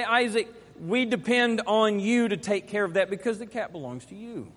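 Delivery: calm, even-toned fatherly reminder; calm request. Shown as a demonstration. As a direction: reason gently with your son, no edge. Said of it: "I can say it like that".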